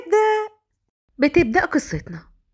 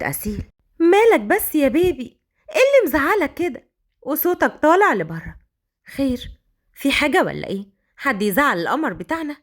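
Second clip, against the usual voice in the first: coquettish. Acted. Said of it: "وقربت من فهد بدلع".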